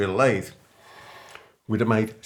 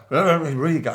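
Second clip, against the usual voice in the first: aggressive; 6 semitones higher, 5 dB louder than usual. Retold or imitated. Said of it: "like, so aggressive".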